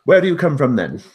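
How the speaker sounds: high, loud, quick gnome, friendly; a chirpy gnome talking to a cat. Acted.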